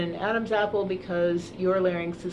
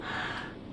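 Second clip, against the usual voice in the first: big yawn sigh; 10 dB quieter than usual. Shown as a demonstration. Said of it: "So not a big, like".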